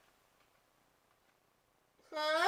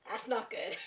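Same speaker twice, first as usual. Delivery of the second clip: shocked squeal; 6 dB quieter than usual. Real, not acted. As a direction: squeal it in horror. Reacting to Spencer's betrayal.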